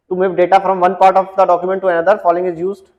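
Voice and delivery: reading the question out slowly, word by word; slow, deliberate quiz read-out. Acted. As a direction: dictate the question slowly to the class. Reads the quiz question aloud.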